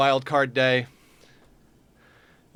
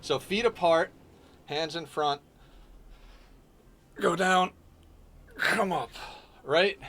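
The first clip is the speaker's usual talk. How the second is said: coaching demo; 6 semitones higher, slower than usual. Shown as a demonstration. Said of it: "So let's try this again".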